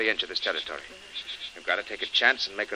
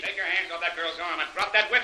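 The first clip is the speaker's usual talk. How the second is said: commanding shout; 9 semitones higher than usual. Acted. Hero bursts in commanding.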